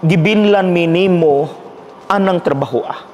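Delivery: retold plea to God. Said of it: "ni question sa Diyos".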